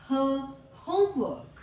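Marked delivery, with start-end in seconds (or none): 0.1-0.4 her said as a lone, punched 'huh'; isolated h sound. Shown as a demonstration. Teacher giving learners the letter's sound, isolated h. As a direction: sound out her as just h plus a short vowel, louder. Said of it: "और ह इसका sound है".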